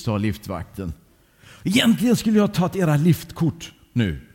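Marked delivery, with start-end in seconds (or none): 1.6-4.3 higher-pitched mild scolding; mildly stern telling-off from a lift guard. Acted. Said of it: "sa han strängt". (lätt sträng tillsägelse)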